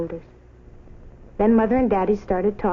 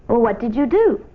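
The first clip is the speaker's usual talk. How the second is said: grandma asking; 2 semitones higher, 6 dB louder than usual. A narrator's reading. Grandma questions Nancy.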